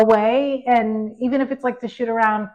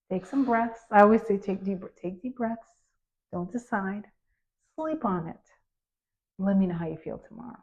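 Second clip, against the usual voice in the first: soothing; 6 dB quieter than usual. Retold or imitated. Calming her anxious son.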